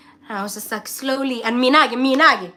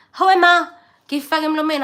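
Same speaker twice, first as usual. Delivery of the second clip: shocked disgust; 6 semitones higher, 5 dB louder than usual. Retold or imitated. Reacting to the food's taste.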